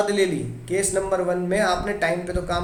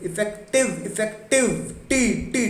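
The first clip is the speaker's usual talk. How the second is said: इफेक्टिव with टी raised high; stress on TI; 4 semitones higher than usual. Shown as a demonstration. Teacher drilling the stressed टी in इफेक्टिव. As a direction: lift and punch टी in इफेक्टिव. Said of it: "टी पे stress आया".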